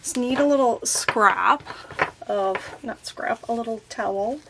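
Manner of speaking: slightly slurred with a numb mouth. Real, not acted. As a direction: talk through a numb mouth from the dentist. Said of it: "I'm a little numb still".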